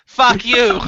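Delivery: "Fuck" imitated with a soft U; mock the accented "Fuck" with a soft U. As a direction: mimic her soft vowel in "Fuck". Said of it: "you have the soft U in fuck".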